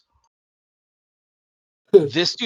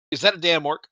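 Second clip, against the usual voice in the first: mock serious; 5 semitones higher, 4 dB louder, faster than usual. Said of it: "he said it so serious".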